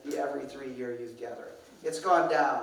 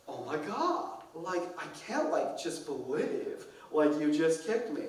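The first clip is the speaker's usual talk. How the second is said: put-on valley girl drama; slower than usual. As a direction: ham up a teen girl's fake outrage. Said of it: "she's really playing it up".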